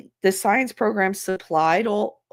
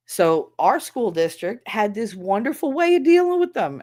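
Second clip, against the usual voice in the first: sarcastic; 2 semitones higher, 3 dB louder than usual. Real, not acted. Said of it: "And I say that very sarcastically".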